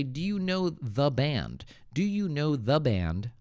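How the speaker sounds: "the band" spoken clearly, "the" fully sounded; THE BAND model. Shown as a demonstration. Teacher rewording a viewer's question, "the band" clearly sounded. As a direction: set out "the" distinctly before "band". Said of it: "I would say".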